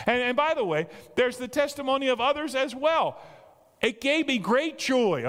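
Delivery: fervent preaching. Acted. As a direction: lift the whole room. Preacher at high pitch.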